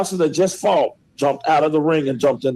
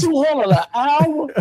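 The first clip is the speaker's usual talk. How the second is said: incredulous; 11 semitones higher, slower than usual. Real, not acted. Outraged at the two-hundred fee.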